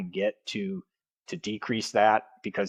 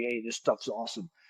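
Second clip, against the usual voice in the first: put-on soft, quick, light New York accent; 2 semitones higher, 6 dB quieter than usual. Quoting a fifty-seven-year-old man he gave an energy drink, slight New York accent. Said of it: "He's from New York too. He's got a little accent".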